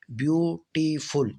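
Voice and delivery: ब्यूटीफुल said slowly, each of its three syllables a separate pulse. Shown as a demonstration. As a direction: space out ब्यू-टी-फुल syllable by syllable. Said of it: "इसमें तीन pulse हैं".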